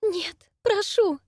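high, slow, faltering plea; a frightened girl pleading in a drawn-out high voice; weak pleading. Acted. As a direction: beg weakly, barely resisting. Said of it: "Сопротивлялась она слабо".

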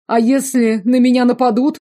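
high, loud anxious whine; a worried, shrill question; fearful whine. A narrator's reading. Frightened prisoner. (высокий тревожный вопрос)

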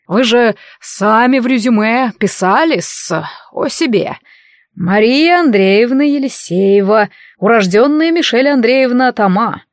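lightly voiced old doorman, slow; a hint of a fussy old servant. (старый швейцар, чуть замедленно)

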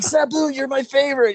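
high, eager fanboy cry; mock-eager kid fan; starstruck fan. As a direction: call out to your idol, starstruck. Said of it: "I'm like".

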